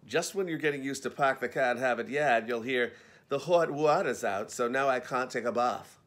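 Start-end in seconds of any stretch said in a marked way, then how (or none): 1.1-2.5 put-on Boston accent. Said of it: "Very hard to pin down". 3.3-6.0 put-on Boston accent. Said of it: "Very hard to pin down".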